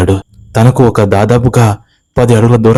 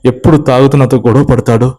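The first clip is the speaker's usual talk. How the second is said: mildly tearful aunt's voice, higher; a hint of sobbing in a worried plea; 4 semitones higher than usual. Aunt tells Siddhu her husband ran off, mildly tearful. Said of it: "వెక్కి వెక్కి ఏడుస్తూ".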